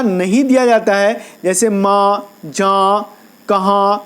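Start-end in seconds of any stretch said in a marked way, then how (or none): 1.7-4.0 "ماں، جاں، کہاں" ending through the nose with no hard n; nasalized final vowel. Shown as a demonstration. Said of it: "جب نون ناک سے پڑھا جائے".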